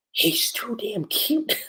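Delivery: high, drawn-out flustered gushing. Retold or imitated. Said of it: "Gray's getting super flustered".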